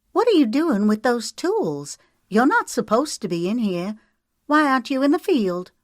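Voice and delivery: high, loud scolding; angry demand. A narrator's reading. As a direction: tell him off hard. Sarah demands angrily.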